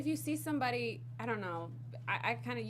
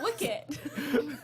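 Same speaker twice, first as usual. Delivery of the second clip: laughing accent try; 3 semitones higher than usual. Shown as a demonstration. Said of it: "I can't say it".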